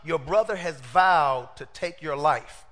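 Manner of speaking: slow, grave warning; lightly voiced mother warning her son; a hint of a worried mom, slowed down; urgent mother. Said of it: "He said".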